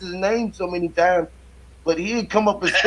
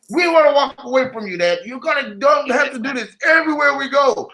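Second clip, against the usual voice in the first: higher, laughing mock whine of wife and kids; imitating his family; 7 semitones higher than usual. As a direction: play the embarrassed family, half laughing. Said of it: "My wife and my kids just be like".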